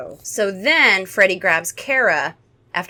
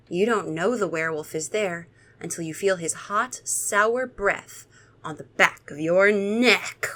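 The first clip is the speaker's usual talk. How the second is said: spooky story narration. Acted. Babysitter scaring a young child with a werewolf tale, spooky narration. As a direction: creep it out like a scary tale.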